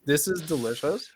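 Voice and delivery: breathless after hot sauce; out of breath. Real, not acted. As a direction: talk while catching your breath. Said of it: "I'm, like, out of breath".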